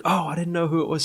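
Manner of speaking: high-pitched retold excuse; imitated girlfriend. Girlfriend explaining to boyfriend, imitated high excuse. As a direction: lift the voice for her excuse.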